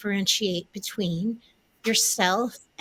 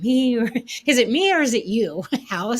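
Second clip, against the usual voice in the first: laughing; 4 semitones higher, 6 dB louder than usual. Real, not acted. Laughing question to the house.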